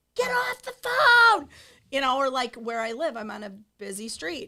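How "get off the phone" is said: screaming, very high, very loud, shrill, drawn-out. Retelling yelling at phone-using drivers: imitating own screaming. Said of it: "I'll start screaming".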